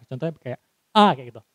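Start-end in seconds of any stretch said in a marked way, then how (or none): 0.9-1.1 "A" voiced big and open; big open vowel. Shown as a demonstration. Trainer showing an articulation drill, big clear "A". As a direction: open right up on "A". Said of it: "ngucapin huruf vokal secara, eh, besar".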